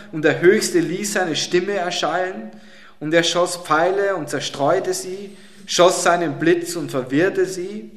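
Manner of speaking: solemn, weighty psalm reading; preacher reads the psalm to the congregation, solemn and weighty; scripture reading. Acted. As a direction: read the psalm like a grand proclamation.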